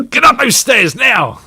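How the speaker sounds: high slow scolding shout; scolding mother. Acted. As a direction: boss him up the stairs.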